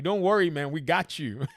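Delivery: mock reassurance. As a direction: play the developer soothing gamers, tongue in cheek. Mocking developer reassurance.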